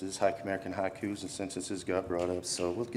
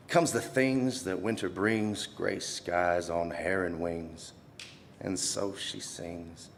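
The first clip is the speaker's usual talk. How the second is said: slow, softening poem reading; hushed, drawn-out verse; poetry recital; slower than usual. Acted. Poem softens toward a close.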